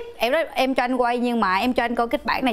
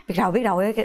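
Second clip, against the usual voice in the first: lower, brushing-off "Biết rồi"; dismissive husband; 5 semitones lower than usual. Retold or imitated. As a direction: wave her off like a bored husband. Husband's dismissive reply voiced. (chồng gạt đi, giọng thấp chán chường)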